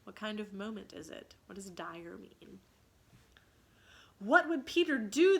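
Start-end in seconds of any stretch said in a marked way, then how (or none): 4.2-5.4 higher, loud call in unison; cried out together. Acted. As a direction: cry out as one. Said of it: "they cried simultaneously".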